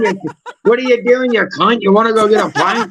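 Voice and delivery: broad British pub banter, calling to a mate; Street's British accent. Acted. Imitating Street greeting his homies, cheeky British accent. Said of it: "Street calls his real life homies".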